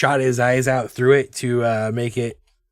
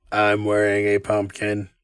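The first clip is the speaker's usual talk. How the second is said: lower robotic voice; 4 semitones lower than usual. Showing off the voices they can do, speaking in a robot voice. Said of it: "That's my robot voice".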